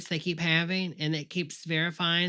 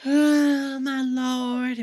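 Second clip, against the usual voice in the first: mock shock; 6 semitones higher, much slower than usual. Mock shock at vote switch.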